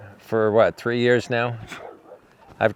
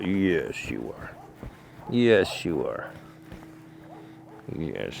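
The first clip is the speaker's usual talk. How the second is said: lower, much softer loving murmur; 6 semitones lower, 9 dB quieter than usual. Real, not acted. Owner murmuring to his good boy, soft and low. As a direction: hush it right down, just for the horse.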